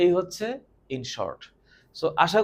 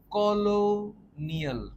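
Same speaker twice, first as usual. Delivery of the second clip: কলোনিয়াল said slowly and higher; slow high emphasis; 6 semitones higher, much slower than usual. Shown as a demonstration. Teacher stressing কলোনিয়াল to students.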